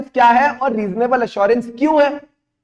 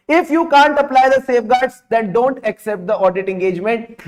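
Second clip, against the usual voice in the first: slow dictation; much slower than usual. Shown as a demonstration. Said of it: "dictating rule slowly".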